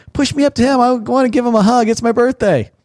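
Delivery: high, giddy tipsy voice; drunk wife. Retold or imitated. Wife retelling her drunk birthday plea, high and giddy. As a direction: play the tipsy birthday girl. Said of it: "Carrie's like".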